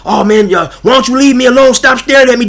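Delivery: mock him as a shrill complainer; whiny mocking imitation. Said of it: "popping off at the pie hole".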